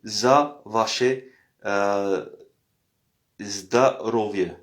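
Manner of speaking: za vaše zdarovie said slowly, syllable by syllable; za vaše zdarovie drawn out for learners; za vaše zdarovie, slow teacher model; Russian toast. Shown as a demonstration. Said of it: "on dit".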